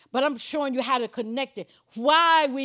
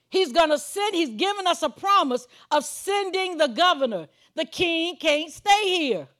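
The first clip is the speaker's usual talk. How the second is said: raised, emphatic preaching voice; 4 semitones higher than usual. Real, not acted. Preacher telling congregation the governor is being sent, emphatic preaching. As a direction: drive the promise home like a preacher.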